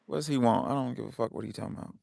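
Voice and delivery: soft aside in Black American accent. Real, not acted. Host dismissing a caller under his breath, Black American accent. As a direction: mutter it in casual Black American vernacular. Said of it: "You sounded very black when you said that".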